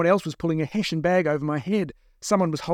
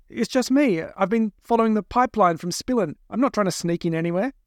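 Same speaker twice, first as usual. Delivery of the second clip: higher-pitched, earnest protest; anxious captive; 6 semitones higher than usual. Acted. Captive explaining himself to his captors, anxious. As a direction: plead innocence in a raised pitch.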